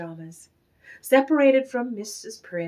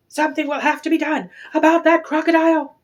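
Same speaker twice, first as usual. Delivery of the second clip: angry threat; 6 semitones higher, 7 dB louder, faster than usual. A narrator's reading.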